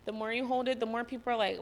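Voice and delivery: ordinary delivery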